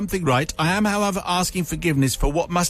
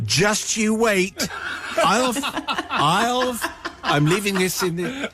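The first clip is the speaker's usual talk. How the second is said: put-on Scottish accent; 2 semitones higher than usual. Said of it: "A very Scottish accent saying".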